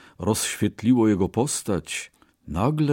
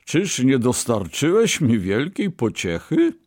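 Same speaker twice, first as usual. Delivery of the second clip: high, louder teasing question; cheerful merchant; 5 semitones higher, 3 dB louder than usual. A narrator's reading. Merchant recalls his winnings to the Brahmin, cheerfully. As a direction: lift it high like a merry merchant. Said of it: "odparł wesoło kupiec".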